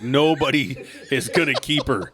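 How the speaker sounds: laughing through it. Real, not acted. Retelling his reassurance to Mark, laughing. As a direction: crack up while giving the advice.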